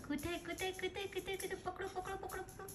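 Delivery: hushed coaxing call while hunting for the pet; soft murmured calls of where, where; hushed searching. Real, not acted. Owner hunting for the pet under her breath, murmuring softly.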